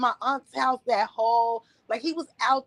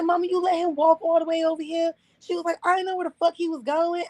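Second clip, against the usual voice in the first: retold phone call; 6 semitones higher than usual. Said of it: "The way that I'm speaking as my mother".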